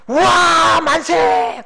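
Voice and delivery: loud, high victory cheer; cheering shout. Retold or imitated. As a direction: yell it like the team just scored. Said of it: "그렇게 소리쳐 주는 것".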